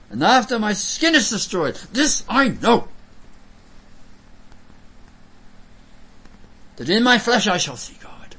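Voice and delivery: loud, high pulpit proclamation; scripture declamation. Acted. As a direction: ring the verse out with conviction. Declaims Job's confession from scripture.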